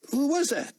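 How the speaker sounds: high, loud call after him. A narrator's reading. Gate guard calling after Buck, loud.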